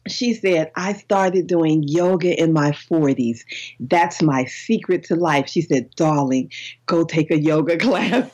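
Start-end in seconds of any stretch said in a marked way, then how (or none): 0.8-5.5 slow, lightly imitated English lady; measured delivery with a touch of English accent. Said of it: "she had an English accent". 6.0-8.3 lightly put-on English lady giving advice; hint of English accent in an imitated "darling". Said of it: "she had an English accent".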